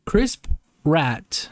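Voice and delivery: "Chris Pratt" split as "Crisp ... Rat"; deliberate mispronunciation. Shown as a demonstration. Mocking the actor's name on purpose, "Chris Pratt" said as "Crisp Rat". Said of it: "I'm gonna say it like that on purpose".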